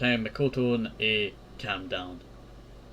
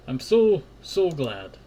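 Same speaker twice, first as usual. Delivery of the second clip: tearful burst; 3 semitones higher, 4 dB louder, slower than usual. Acted. Sobbing relief in sad scene.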